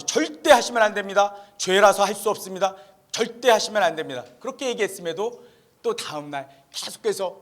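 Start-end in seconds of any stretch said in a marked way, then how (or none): 0.0-4.2 firm, insistent prohibition; retold emphatic warning from a missionary. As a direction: press each prohibition home with force. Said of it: "다시 한번 힘을 줘서 강조".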